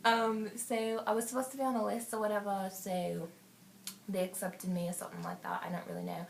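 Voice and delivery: lightly put-on African accent. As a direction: tell the party story in an African accent. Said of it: "I'm gonna go to African".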